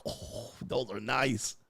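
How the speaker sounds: slow, low, soft murmur of admiration; hushed excitement. Acted. Man admiring what he unwrapped, hushed mock excitement. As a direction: draw it out quietly, savoring the view. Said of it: "they be excited".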